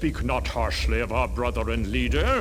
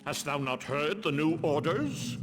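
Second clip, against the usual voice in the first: softer, hushed worried murmur; hushed guard talk; 6 dB quieter than usual. Acted. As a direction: keep it down, the guards gossip in secret.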